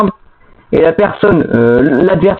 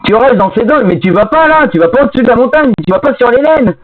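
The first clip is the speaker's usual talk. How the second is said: exasperated; 4 semitones higher than usual. Real, not acted. Scolding teammate over game rules.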